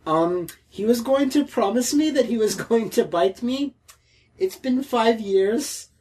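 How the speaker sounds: wobbly attempted Kiwi accent, drifting Indian; shaky put-on New Zealand accent. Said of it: "Is this supposed to be a Kiwi accent?".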